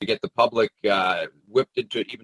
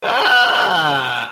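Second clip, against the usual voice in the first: exaggerated "ah"; 3 semitones higher, 6 dB louder than usual. Sarcastic noise after laughing.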